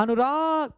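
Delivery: अनुराग said with its last vowel lengthened; drawn-out call. Shown as a demonstration. Teacher demonstrates calling a name, lightly drawn out. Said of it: "ऐसे बोलते हैं ना".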